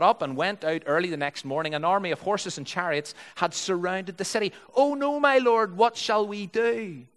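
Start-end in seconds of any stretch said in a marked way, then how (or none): 4.7-7.1 high, dismayed wail, slowing at the end; read-aloud panic; alarmed cry. A narrator's reading. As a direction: cry out for help, starting loud and high. Servant's panic voiced in scripture reading.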